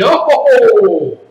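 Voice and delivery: drawn-out indignant cry; hammed-up displeasure; pissed. Shown as a demonstration. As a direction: let it turn from laughter to annoyance. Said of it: "then you're pissed".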